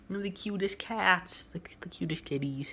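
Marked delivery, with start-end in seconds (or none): 1.4-2.7 soft whisper. Real, not acted. Owner whispering while filming her shy kittens. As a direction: whisper so as not to scare the cats.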